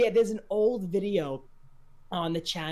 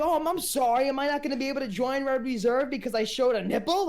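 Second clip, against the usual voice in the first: mock apology; 5 semitones higher than usual. Retelling his sarcastic stream remark.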